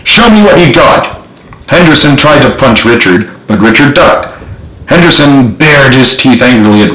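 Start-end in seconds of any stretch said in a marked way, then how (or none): 0.0-1.2 much higher goading dare; taunting. A narrator's reading. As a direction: dare him to fight, mocking. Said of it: "Richard taunted".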